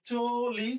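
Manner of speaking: চলি slowly as "cho-li"; closed o vowel. Shown as a demonstration. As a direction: say চলি with a rounded first vowel. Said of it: "তাহলে এটাও তাই".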